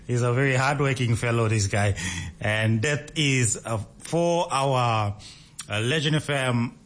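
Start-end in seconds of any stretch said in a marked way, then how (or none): 2.4-6.9 real tongue-tied stumbling. Real, not acted. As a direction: stall on "uh" while losing the thread. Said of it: "I'm getting tongue-tied".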